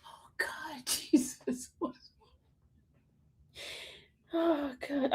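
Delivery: faint, high, tearful gasp of words; weak from laughing. Real, not acted. Host recovering from a laughing fit, weak from laughing. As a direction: sigh it out with no breath left. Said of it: "I got tears in my eye 'cause y'all making me laugh".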